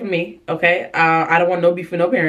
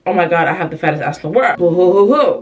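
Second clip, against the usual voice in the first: mock crying; faster than usual. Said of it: "me literally fake crying".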